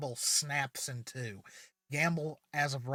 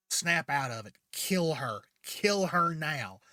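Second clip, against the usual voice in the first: louder, building barked command; angry order; 4 dB louder than usual. Retold or imitated. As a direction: snap orders at him, slowing on the last. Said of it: "but he's like".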